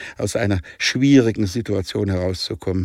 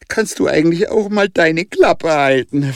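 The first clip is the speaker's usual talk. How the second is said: higher, irritated snap; moody; 9 semitones higher, 5 dB louder than usual. Acted. Jonah telling Kolo to shut up, grumpy and irritated. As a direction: tell him off grumpily. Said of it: "fragte Jonah launisch".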